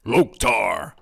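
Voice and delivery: Warcraft orc war cry; disguised deep voice. Pretend. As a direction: bellow it like an orc. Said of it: "doe er eens een paar na".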